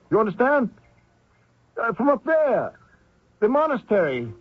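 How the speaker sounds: high, anxious plea; pleading. Acted. Deserter at gunpoint pleading with the guard, high and anxious. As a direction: beg the guard not to shoot.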